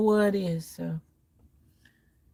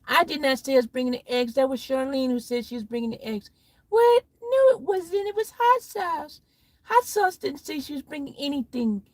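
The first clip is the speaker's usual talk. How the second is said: squabbling friends voices; 4 semitones higher than usual. Acted. Skit of squabbling friends over eggs.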